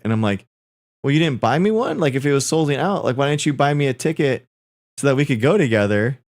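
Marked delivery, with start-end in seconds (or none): 1.0-6.2 indignant. Retold or imitated. Arguing about the missing ticket.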